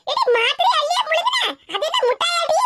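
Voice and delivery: high-pitched, aghast question; appalled, pitch shooting up; shocked scolding. Acted. Shocked scolding on hearing of pills.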